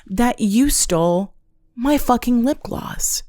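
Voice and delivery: sulky mock accusation, drawn out; lightly voiced petty accuser; petty high-pitched whine. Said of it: "they'll be like".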